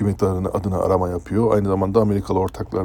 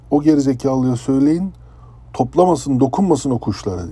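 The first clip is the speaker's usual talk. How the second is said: higher, louder angry order over the PA; retold shrieking captain; 4 semitones higher, 4 dB louder than usual. Captain yelling over the ship's PA, angry shout. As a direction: relay the captain's furious yelling. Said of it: "Ciyak ciyak bağırıyor adam".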